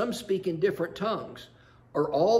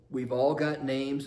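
slow, gentle and certain; calm, slow punchline; 3 semitones lower, slower than usual. Acted. Sheila calmly telling the census taker, slow and gentle.

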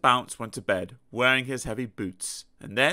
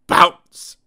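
loud bounce call; 14 dB louder than usual. A narrator's reading. Tennis rally bounces.

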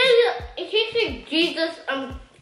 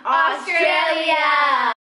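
shout; 4 dB louder, much slower than usual. Acted. Show intro shout.

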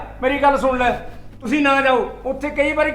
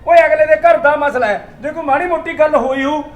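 louder, exasperated rebuke; scolding; 2 semitones higher, 5 dB louder than usual. Acted. Husband scolding his wife during the quarrel, raised voice. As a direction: tell her off for overreacting.

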